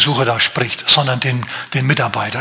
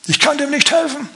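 hammed-up royal lament; lamenting king; 11 semitones higher than usual. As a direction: wail it like a helpless king in panic. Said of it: "lamentiert und rumschreit".

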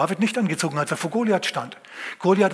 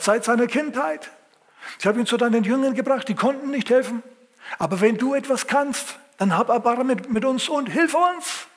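pleading father, pitched much higher; desperate father; 8 semitones higher than usual. Acted. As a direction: beg for your son in a high voice. Desperate father begs Jesus.

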